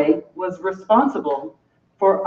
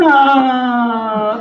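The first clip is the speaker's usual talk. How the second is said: vaginal moan; 3 dB louder than usual. Acted. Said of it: "The vaginal moan".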